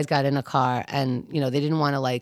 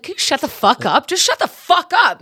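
mock yell; 9 semitones higher, 4 dB louder than usual. The speaker yelling at girl.

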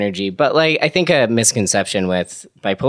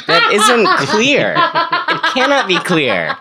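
mock denial; 13 semitones higher, 3 dB louder, slower than usual. Mocking climate deniers.

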